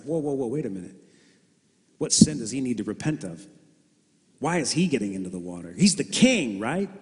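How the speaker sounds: rising, incredulous objection; mock astonishment. Preacher voicing onlookers puzzled by Jesus in the water, mock disbelief. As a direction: act baffled at the king in the water.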